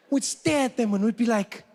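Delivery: ordinary talk, nothing marked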